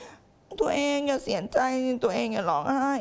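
mock tender coddling. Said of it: "หรือแบบ".

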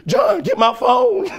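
very high, loud hammed-up cracked cry; voice cracking. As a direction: wail it comically, on the edge of tears. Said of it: "My voice cracking".

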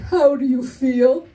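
slow, put-on voice asking tenderly; mock feelings talk. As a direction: drag out the question in pretend concern. Imagines stern father discussing feelings.

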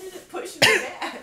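startled high yelp of surprise; surprised. Real, not acted. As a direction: caught off guard, high and loud. Bounced off mattress, surprised.

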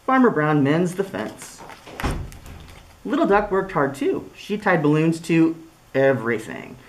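lively storybook voice with big swings; reading to children. Acted. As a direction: read it like story time for little kids. Reads picture book aloud.

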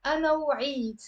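أنا وعيت linked quickly as "anaw-iit"; one syllable. Shown as a demonstration. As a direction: run وعيت into أنا with no vowel after the w. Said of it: "that's one syllable".

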